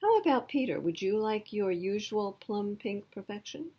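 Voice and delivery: high, loud, cheery shopkeeper; a bright, sing-song ice cream man greeting her; Mister Swizzle voice. Acted. Ice cream man greets girl, high and cheery.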